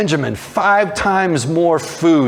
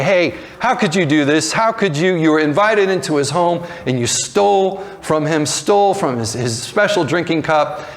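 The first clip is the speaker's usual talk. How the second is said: mildly raised, acted reproach; indignant accusation; 3 semitones higher than usual. Guards confront the brothers over the stolen cup, indignant accusation. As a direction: accuse them in disbelief, pitch lifted.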